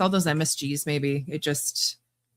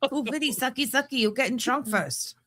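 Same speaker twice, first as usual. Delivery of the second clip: hammed-up broken-English Vietnamese accent, higher; mock Vietnamese accent; 5 semitones higher than usual. Teasing her friend, mocking a Vietnamese accent. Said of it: "No, that's, that's Vietnam".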